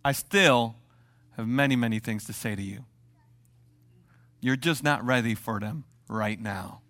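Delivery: Jesus gently telling his disciples to wait; gentle Jesus. Acted. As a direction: say it kindly to the disciples. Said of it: "he says this statement".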